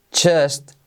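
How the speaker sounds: slow, careful teaching read; half-speed model phrase; slow demo. Shown as a demonstration. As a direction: spell it out slowly for learners. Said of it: "mirad cómo lo transcribo".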